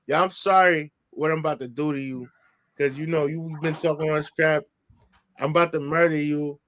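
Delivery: low-pitched mock English accent; acted English-accent warning, kept low; imitated English accent. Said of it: "he's talking his English accent".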